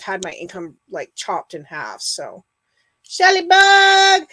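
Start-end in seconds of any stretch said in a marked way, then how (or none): 3.0-4.2 high, slow, loud joyful call; excited call. Real, not acted. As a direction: call her name out with delight. Greeting a friend joining chat.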